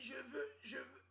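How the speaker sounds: high whispered I want; whispered plea. Retold or imitated. Girlfriend whispering her need, high. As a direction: breathe it out as a pleading whisper. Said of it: "Elle dit".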